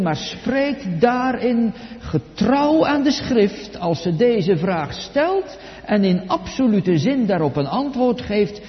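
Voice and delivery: ordinary talk, nothing marked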